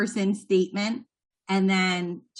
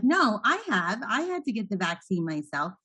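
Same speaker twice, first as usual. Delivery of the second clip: defensive retort. Retold or imitated. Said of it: "our natural reaction might be like".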